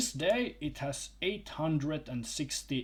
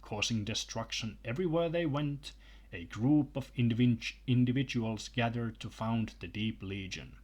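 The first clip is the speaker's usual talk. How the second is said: reading aloud. Acted. Reads a book passage aloud.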